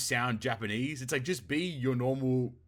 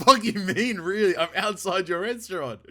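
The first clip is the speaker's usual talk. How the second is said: indignant retort; 6 semitones higher, 8 dB louder than usual. Retold or imitated. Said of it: "And I was like".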